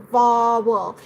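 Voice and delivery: "vowel" stretched slowly, each sound shown; exaggerated VOWEL. Shown as a demonstration. Teacher showing how the lips move, exaggerated "vowel". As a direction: draw out "vowel" to show the lip movement. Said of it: "So exaggerate more and more".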